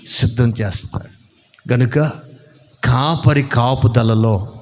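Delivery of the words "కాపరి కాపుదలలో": slow, chanting preacher's blessing; measured, solemn church benediction; closing benediction. Real, not acted. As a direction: intone the blessing slowly, building to a drawn-out Amen.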